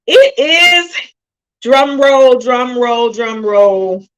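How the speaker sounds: big, loud drawn-out build-up; suspenseful announcement. Pretend. Host teasing tonight's topic, drum-roll announcement.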